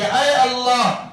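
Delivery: a mother calling down a curse, slow and high; mother's curse. Retold or imitated. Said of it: "کہنے لگی کہ".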